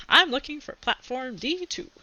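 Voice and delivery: a lightly voiced odd little creature; a hint of a quirky Potter Wookiee; Harry's creature voice. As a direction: give the small furry creature a strange voice.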